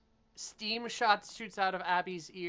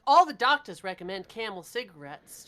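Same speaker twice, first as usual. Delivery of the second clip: put-on upbeat old-time cigarette pitch; chipper 1950s ad; 4 dB louder than usual. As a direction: sell it like a vintage commercial. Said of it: "presenting it in a commercial".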